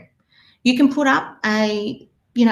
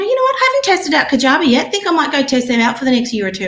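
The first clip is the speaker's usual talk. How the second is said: much higher, louder mock enthusiasm; eager idea; 4 semitones higher, 3 dB louder, faster than usual. Coach imitating herself pitching a new course, eager. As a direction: chirp it like a shiny new plan. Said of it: "I go".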